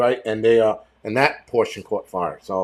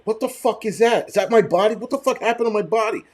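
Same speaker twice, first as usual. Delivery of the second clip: shocked at the mirror; 9 semitones higher than usual. Retold or imitated. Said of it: "I'm like".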